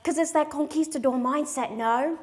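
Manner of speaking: lightly Australian lilt, ending on a questioning tag; accidental Australian accent. Acted. Comic explaining men's mindset to the crowd, accidental Australian accent. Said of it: "I did an Australian accent".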